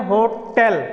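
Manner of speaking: "होटल" with a clear e, "ho-TEL"; corrected pronunciation. Shown as a demonstration. Teacher giving students the new form, corrected "ho-tel". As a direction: end "होटल" on "tel" instead of "tal". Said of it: "अब बोलेंगे हम लोग क्या".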